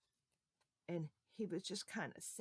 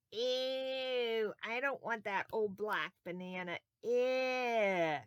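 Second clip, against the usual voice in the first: put-on disgusted girl; 2 semitones higher, slower than usual. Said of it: "look what this little girl did".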